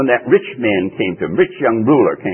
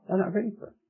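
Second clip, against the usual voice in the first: higher insistent repeat; 10 semitones higher, 10 dB quieter, much faster than usual. Shown as a demonstration. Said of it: "repeated for emphasis".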